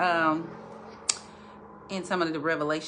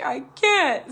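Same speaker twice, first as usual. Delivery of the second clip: panicked husband; 9 semitones higher, 5 dB louder than usual. Retold or imitated. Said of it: "he's like".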